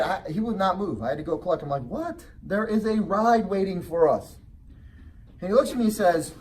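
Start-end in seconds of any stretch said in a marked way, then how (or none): 1.8-4.4 puzzled dad, taken aback; surprised. Retold or imitated. Dad reacting to son.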